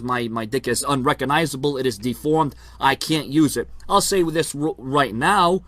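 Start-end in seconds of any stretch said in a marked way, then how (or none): 0.0-3.7 low, soft mocking whine of the rival's claim; mock whiny complaint. Wrestling vlogger mocking his rival's claim, low and soft. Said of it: "he says".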